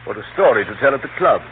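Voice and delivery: chuckling, loud and amused; laughing heartily at the absurdity; laughing delight. Acted. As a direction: laugh the accusation off. Uncle laughs off the arrest.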